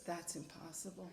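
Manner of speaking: stunned disbelief. Retold or imitated. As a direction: mutter it in shock. Brother stunned at real meaning.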